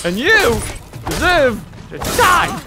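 mock vengeance. Threatening a game enemy.

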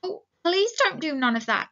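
acted frightened pleading; begging. A narrator's reading. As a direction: implore with a lifted voice. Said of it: "he begged".

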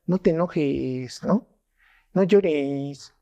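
mock plea with drawn-out words; dismissive soothing. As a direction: stretch the words like a tired placation. Acts out a dismissive reaction.

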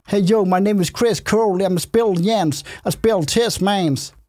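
lightly put-on English rapper introduction; rapper intro. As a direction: introduce yourself like a rapper, drawing out the end. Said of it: "Det lyder som sådan et rappernavn". (let påtaget rapperstemme)

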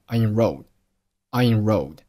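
"I enrolled" glided together as one word; linked words. Shown as a demonstration. Teacher demonstrating linking for learners, linked "I enrolled". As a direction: run "I" straight into "enrolled". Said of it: "I和enrolled连读成了".

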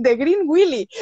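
"Green Willy" with a short i in "Willy"; mispronunciation. Retold or imitated. Guide asking the drivers to stop, mispronouncing it "Willy". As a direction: say "Willy" as WIH-lee, in a Spanish accent. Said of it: "de las pronunciaciones".

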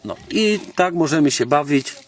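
ordinary talk, nothing marked

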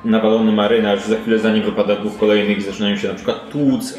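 ordinary delivery

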